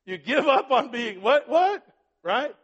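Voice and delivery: high, loud, laughing what, what; incredulous with a laugh; laughing disbelief. Real, not acted. Preacher laughing in disbelief at the excuse.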